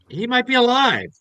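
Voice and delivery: loud, high, insistent hope; urgent protest. Acted. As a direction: push back urgently, raising your voice. Acted urgent objection over body.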